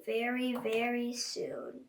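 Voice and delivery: quietly menacing; ominous hush. Acted. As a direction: let the threat hang. Ominous slow whisper of threat.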